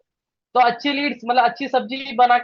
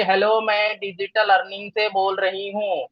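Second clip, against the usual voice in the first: slow, even, memorised telecaller script; robotic rote recital; 3 dB quieter than usual. Acted. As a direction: recite it mechanically, like a mock robot caller. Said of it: "robot है". (रटा-रटाया, robot जैसा लहजा)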